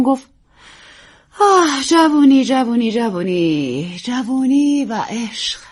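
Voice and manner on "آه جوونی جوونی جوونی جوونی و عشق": slow, drawn-out sighing; wistful theatrical sigh. Acted. Actress sighs at young wife's youth, slow wistful. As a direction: sigh over youth dreamily.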